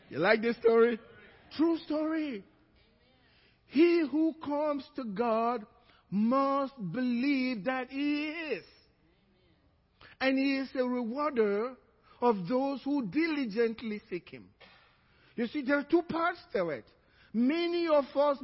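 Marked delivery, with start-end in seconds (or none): 3.7-14.4 slow, deliberate preaching; slow scripture recitation. Acted. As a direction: lay the verse down slowly. Scripture repeated to congregation.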